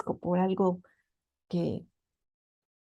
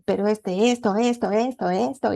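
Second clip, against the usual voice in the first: louder, mock grumpy complaining to God; in a bad mood; 5 dB louder than usual. Wife complains to God about her husband, crossly. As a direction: rattle off grievances crossly. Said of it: "así de mal modo y todo".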